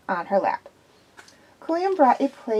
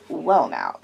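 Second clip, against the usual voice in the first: soothing; 6 semitones lower than usual. A narrator's reading. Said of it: "in his most soothing way".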